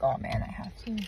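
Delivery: whispered, reluctant resignation; whispered dread. Retold or imitated. Retelling her morning to viewers, a whispered groan. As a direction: breathe it out like giving in.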